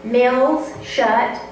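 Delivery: measured, unhurried poetry reading; poem reading. Acted. Reads her poem aloud.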